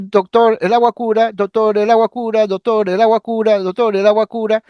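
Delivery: lightly voiced psychotic patient, automatic and monotonous; a hint of a schizophrenic patient's stereotyped phrase; verbigerating patient. Shown as a demonstration. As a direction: repeat "doctor, el agua cura" in a mechanical loop. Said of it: "un paciente psicótico esquizofrénico puede decir".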